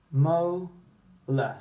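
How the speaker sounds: molar with a full er ending; spelling voice. Shown as a demonstration. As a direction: sound out molar as spelled, lar. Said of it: "We spell it molar because this is an er".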